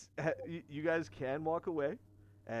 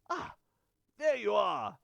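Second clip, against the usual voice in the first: loud, higher-pitched cry of discovery; excited yell; 8 semitones higher, 7 dB louder than usual. Acted. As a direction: call out as if you've just found it. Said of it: "you hear him yell".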